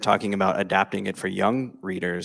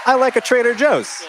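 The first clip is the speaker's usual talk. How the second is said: higher, louder, eager "I like a Trader Joe's"; emphatic plea; 8 dB louder than usual. Real, not acted. Begging Traverse City for a Trader Joe's, loud and eager. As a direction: plead for the store, eagerly.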